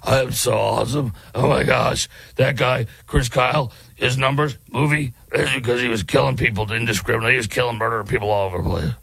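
lightly put-on boastful voice, rushing at the end; mocking Graham Plattner. Host parodies a critic's boasts, light mocking voice. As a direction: sneer it like a self-loving braggart. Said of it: "in your gravelly voice".

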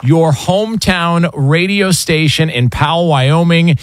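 measured station welcome, call letters spelled out slowly; radio announcement. Real, not acted. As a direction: announce the new affiliate, slowing on the station name. Announces a new radio affiliate.

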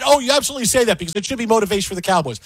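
rushed, sarcastic parroting; mocking hot take. Host parroting pundits with quick mock sarcasm. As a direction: rattle off the fake pundit line. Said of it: "nobody wants that".

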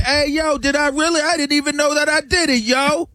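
mock homeboy voice. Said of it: "This is a massive exaggeration".

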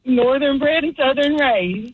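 real, slow Southern drawl; Southern accent. Real, not acted. Caller to radio hosts about her roots, in slow Southern accent. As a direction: draw the phrase out in a Southern accent. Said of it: "getting more and more Southern".

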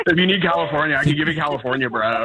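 overdone California bro accent; hammed-up California guy voice; full California. Shown as a demonstration. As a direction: lay on the laid-back California dude talk. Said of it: "I could go full California".

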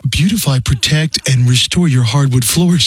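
canned slogan recital; robot voice. Acted. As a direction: list it like a machine. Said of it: "like a Max Headroom".

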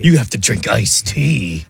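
slow, drawn-out mock threat; mock dire sentence. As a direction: stretch it out as a silly punishment. Mocking the silly punishment, "listen to us.

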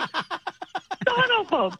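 high, laughing, shrieking disbelief. Retold or imitated. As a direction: squeal it through laughter at your own mistake. Laughing at own Italian mix-up.

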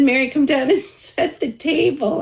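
lightly voiced parental summons with a laugh; mother calling. Mom calls resting daughter down to set table, lightly imitated.

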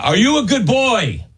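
dog-talk voice. Pretend. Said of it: "use your dog voice".

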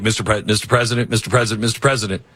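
hurried wrap-up. Retold or imitated. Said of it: "And I'm like".

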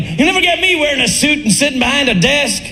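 put-on young punk rocker. Comic as his young punk-rock self, defiant vow. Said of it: "when I was a young man".

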